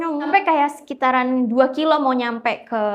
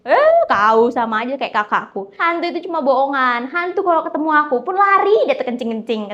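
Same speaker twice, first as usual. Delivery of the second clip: loud, swaggering brag; cocky boast; 3 semitones higher, 5 dB louder than usual. Retold or imitated. Bang Jack mocking his fellow driver, swaggering and loud. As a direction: puff up and show off.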